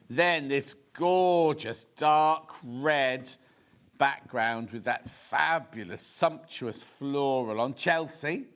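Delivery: savouring. Acted. Lingering over sumptuous fabric.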